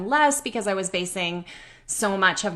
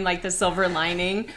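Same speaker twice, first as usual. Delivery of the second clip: ordinary delivery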